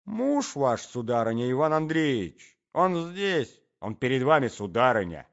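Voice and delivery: loud, pointed announcement; accusing. Acted. Young man confronts the lady with her husband, accusing.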